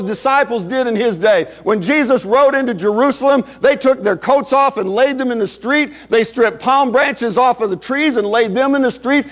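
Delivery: driving, emphatic sermon delivery; impassioned preaching. Real, not acted. Preacher urging the congregation not to be ashamed, fervent preaching. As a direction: preach it in long, rolling phrases.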